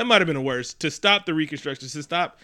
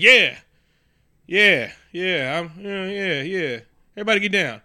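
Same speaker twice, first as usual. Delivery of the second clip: mock Sessions; 4 semitones higher, 5 dB louder, slower than usual. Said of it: "Sessions was like".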